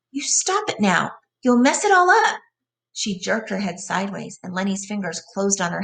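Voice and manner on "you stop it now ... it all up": angry cry. A narrator's reading. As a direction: rise from warning into a shrill shout. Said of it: "she cried angrily".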